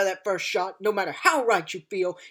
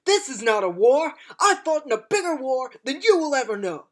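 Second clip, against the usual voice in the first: booming rousing general speech; 3 semitones higher, 5 dB louder than usual. Acted. Fierce speech about past war.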